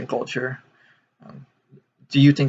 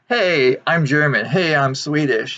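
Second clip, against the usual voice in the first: higher, louder imitation of proud claims; eager mock announcement; 4 semitones higher, 3 dB louder than usual. Americans claiming European roots, eager mock announcement. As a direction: mimic people eagerly announcing their heritage.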